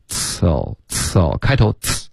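呲 as a light, vowelless "ts" burst; light plosive hiss. Shown as a demonstration. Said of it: "有一点轻轻的呲".

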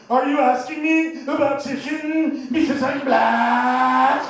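slow, high, loud offended yell; offended shout. Retold or imitated. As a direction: snap back at the question.

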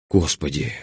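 drawn-out weary groan. Acted. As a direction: moan it in despair. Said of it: "простонала я". (со стоном)

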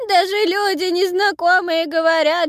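put-on high, loud crying old woman; granny crying. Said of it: "старческий плач".

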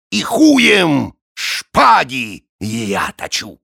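lightly voiced vain nobleman; boastful don voice. Drachila explains.

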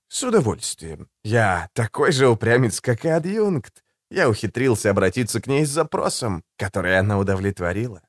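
calm, silky and a little mocking; suave assassin voice. Голос Жемчуга. (учтивый, вкрадчивый голос убийцы)

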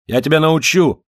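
angry officer. A narrator's reading. Officer interrogating the yard-keeper at the gate, yelling angrily. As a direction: lay into him like a drunk brute.

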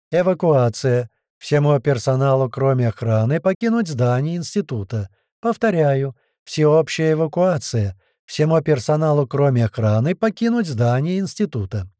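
measured, formal public announcement; loudspeaker announcement. A narrator's reading. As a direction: announce the evacuation, drawing out each phrase. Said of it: "из громкоговорителя мы услышали женский голос". (размеренное объявление по громкой связи)

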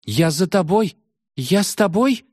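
put-on a frightened girl stumbling over words; frightened babble. A narrator's reading. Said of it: "путалась в словах совершенно белая от испуга". (сбивчиво, в испуге)

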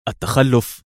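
mocking repeat of the word; scornful one-word echo; sarcastic echo. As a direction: toss his word back with scorn. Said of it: "قال ليفي ساخرا".

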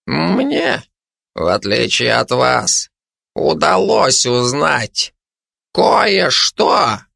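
put-on querulous, halting old hermit. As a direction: grumble it out in pieces, self-important. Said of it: "произнёс он сварливым тоном". (сварливо, с расстановкой)

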